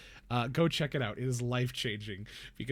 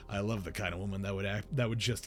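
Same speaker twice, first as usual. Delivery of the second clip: desperate pleading; 4 semitones lower than usual. Retold or imitated. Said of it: "meme on the internet of, like".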